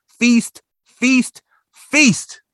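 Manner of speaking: mock the feasting in a high voice. A narrator's reading. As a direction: narrator mocking the Whos' endless feasting. Mocking the feasting.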